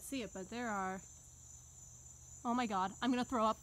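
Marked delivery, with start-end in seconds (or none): 2.4-3.6 louder, panicky oh my God; panicked disgust. Real, not acted. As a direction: freak out at touching a web. Panicking at spider web.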